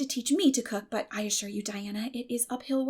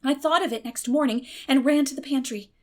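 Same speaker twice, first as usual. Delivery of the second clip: plain reading voice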